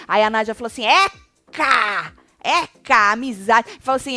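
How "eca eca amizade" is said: loud, scornful retold "yuck"; hammed-up revulsion, imitating someone; mock disgust. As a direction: throw it out loudly in exaggerated disgust. Acts Nádia's disgusted retort.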